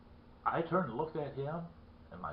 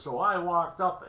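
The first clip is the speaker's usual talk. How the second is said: raised, louder voice building suspense; acted worked-up retelling; 6 semitones higher, 6 dB louder than usual. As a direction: play the rattled man recounting it. Shaken man retells his scare.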